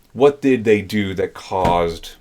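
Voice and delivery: slow and stumbling over the words; slow, halting take. Real, not acted. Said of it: "I'll fix that later".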